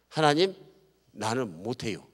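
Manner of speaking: slipping into Chungcheong dialect; Chungcheong-accented humble plea. Acted. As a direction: let a Chungcheong country lilt slip out. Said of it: "사투리 나왔나요".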